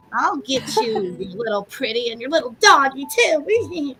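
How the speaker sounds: a hint of the cackling witch threatening; sing-song witch threat, barely voiced; Wicked Witch impression. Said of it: "I can do the one lady".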